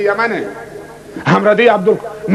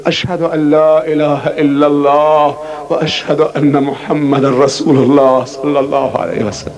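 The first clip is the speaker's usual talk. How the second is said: recited shahada; 6 semitones lower than usual. Retold or imitated.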